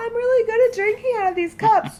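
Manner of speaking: high-pitched voice. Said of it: "*high pitched voice*".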